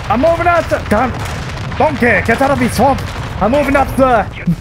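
put-on high, muddled Scottish accent; wandering mock-Scottish soldier voice; bad Scottish accent. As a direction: fake a hammed-up Scottish burr. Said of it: "My Scottish, British, Irish, stupid accent".

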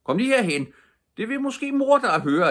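loud, high call across the field; shouted. Acted. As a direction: call out to Kalle. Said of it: "råbte kommissæren".

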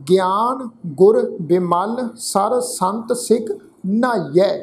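measured verse reading, phrase by phrase; careful sacred-verse recital; scripture recitation. Shown as a demonstration. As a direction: recite deliberately with a pause after each phrase.

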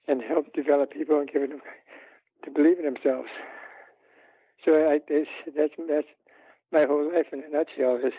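short of breath, winded; breathless from a lung problem; running out of air. Real, not acted. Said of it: "I'm running out of breath".

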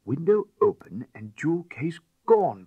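loud exclamation. A narrator's reading. Lord exclaiming at the theft.

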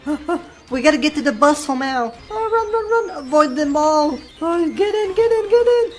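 high, loud panicked yelling; being chased. Pretend. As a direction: shout while fleeing in a panic. Fleeing the chef and duck.

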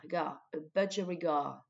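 budgerigar with first and last syllables stressed; stress on BUD and GAR in budgerigar. Shown as a demonstration. Teacher showing French learners the word, stressing BUD and GAR. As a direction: lean on BUD, then on a long GAR. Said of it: "on accentue la première syllabe".

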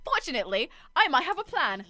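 lightly voiced nerd; a hint of a nerdy voice; nerdy character. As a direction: try out a mild nerd character. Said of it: "it was like nerdy, wasn't it".

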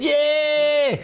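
high, loud hammed-up cheer; presenter fakes a crowd cheering, loud; mock cheer. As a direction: throw up a big celebratory whoop. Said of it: "all cheering".

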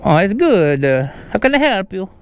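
lightly hammed Italian accent. Prankster greeting the pizza delivery person, mock Italian accent. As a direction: keep the fake Italian lilt going. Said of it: "uh, an Italian accent".

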